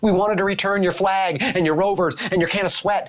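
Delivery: a lightly put-on alien voice; stiff, formal alien greeting. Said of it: "I've never done an alien impression before".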